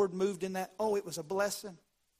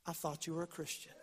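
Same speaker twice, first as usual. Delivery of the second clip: hushed, much softer retold reproach; quiet rebuke; 3 semitones lower, 11 dB quieter than usual. Coworker looks at the angry man, quietly reproachful. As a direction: drop right down to a soft reproach.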